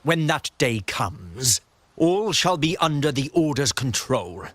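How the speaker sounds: grand, menacing proclamation with swooping pitch; ominous warning. Acted. Order zealot threatening the Montelli daughter, ominous proclamation. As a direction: pronounce doom with rising, emphatic swells.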